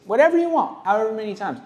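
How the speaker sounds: a lightly perky, accommodating artist; cheery tattoo face. Retold or imitated. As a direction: chirp it out like an eager artist. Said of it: "That's my tattoo face".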